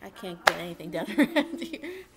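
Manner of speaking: loud laugh breaking through the words. Real, not acted. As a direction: laugh in frustration at the chaos. Laughing at interruptions.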